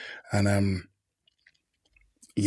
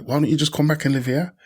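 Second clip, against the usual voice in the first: lightly voiced auntie, pitched up; higher, coaxing invitation; auntie's coaxing; 6 semitones higher than usual. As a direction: lift the pitch like an aunt urging you home. Retells aunt's kindly invitation.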